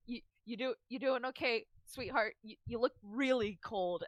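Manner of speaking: soft, hesitant concern; quiet, tender worry; worried. Acted. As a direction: gently check on a hurt friend, stumbling over the words. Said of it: "sort of worried, worriedly hovering over Doc".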